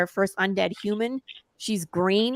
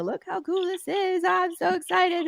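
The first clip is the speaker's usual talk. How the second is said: mock excited; 9 semitones higher than usual. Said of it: "I posted on social media".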